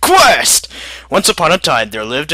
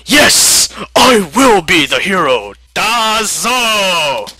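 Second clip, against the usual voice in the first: heroic shout; 3 semitones higher, much slower than usual. Acted. America vowing to be the hero, shouted proudly. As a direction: bellow it like a superhero.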